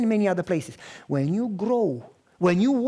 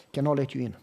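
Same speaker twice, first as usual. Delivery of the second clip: lower gruff refusal; 6 semitones lower, 4 dB quieter, faster than usual. Retold or imitated. Biker guy refusing again.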